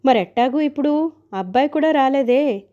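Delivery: a touch of panicky fussing; flustered worry. Acted. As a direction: fret aloud about what to do now. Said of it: "కంగారు పడుతూ".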